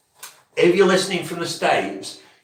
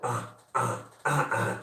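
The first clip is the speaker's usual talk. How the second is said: vocal hook; 4 semitones lower, 9 dB quieter than usual. Shown as a demonstration. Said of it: "then I'll go".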